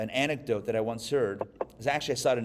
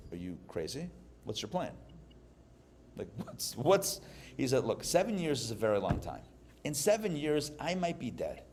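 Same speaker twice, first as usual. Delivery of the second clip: softer, hushed questioning; hushed worried quote; 6 dB quieter than usual. Retold or imitated. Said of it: "the other Jews say to this Jew".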